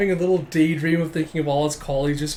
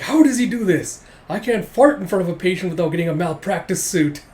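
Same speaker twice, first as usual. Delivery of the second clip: loud, high opening wail; mock-outraged griping; exasperated disbelief; 3 semitones higher, 5 dB louder than usual. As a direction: complain in hammed-up comic frustration. Rival's exasperated outburst, acted.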